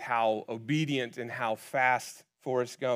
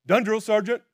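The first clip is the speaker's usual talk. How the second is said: higher, louder proud Forrest voice; Forrest reporting; 10 semitones higher, 11 dB louder than usual. Retold or imitated. Forrest reporting his gun done to the sergeant. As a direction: snap it out proudly.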